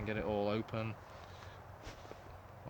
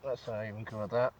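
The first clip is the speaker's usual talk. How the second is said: through a gas mask; 3 dB louder than usual. Real, not acted. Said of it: "That sounds better".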